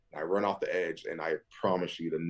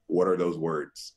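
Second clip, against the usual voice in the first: slow, higher bewildered questions; baffled; 5 semitones higher than usual. Retold or imitated. Answering his agent about CFL teams, baffled. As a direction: play totally lost.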